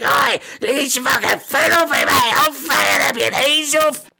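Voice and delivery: high, ranting Scouse creature voice; thick Scouse kobold. Acted. Pinned kobold swears at its captor, angry thick Scouse. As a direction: rant in very thick, darkest Liverpool accent. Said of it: "very thick scouse kobold".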